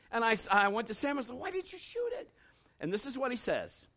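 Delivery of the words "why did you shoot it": much higher, baffled question; incredulous dad. Retold or imitated. Dad asks son in disbelief why he didn't shoot.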